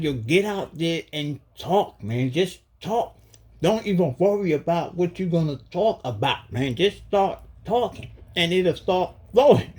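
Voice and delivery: high, slowed voice of the spirits urging him on; spirit beings voice. Retold or imitated. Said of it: "They like".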